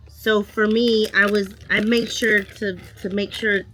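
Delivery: stumbling and restarting the words; tripping over the words, repeating them; stuttering. Real, not acted. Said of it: "I feel like I'm stuttering".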